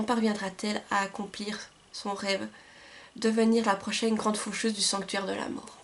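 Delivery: measured storytelling read-aloud, phrase by phrase; back-cover reading. Acted. Book vlogger reading a back cover to viewers, measured read-aloud.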